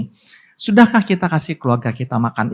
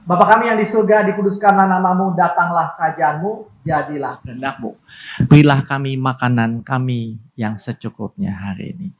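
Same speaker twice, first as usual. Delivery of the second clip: prayer recital. Acted.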